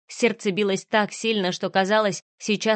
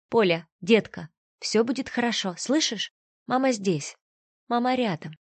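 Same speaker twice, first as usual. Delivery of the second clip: soothing mother; 2 semitones higher than usual. Acted. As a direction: comfort your scared child. Mother soothing frightened daughter.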